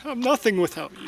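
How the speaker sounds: begging her to stay; grief-stricken lover; tearful despair. Acted.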